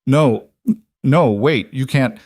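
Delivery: high, loud panicked pleas; panicked protest. A narrator's reading. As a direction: panic at the death sentence. Condemned man panicking.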